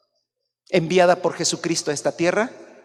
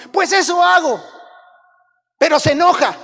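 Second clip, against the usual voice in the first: much higher, loud shouted complaint; frustrated shout; 10 semitones higher, 8 dB louder than usual. Pretend. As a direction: yell out your frustration.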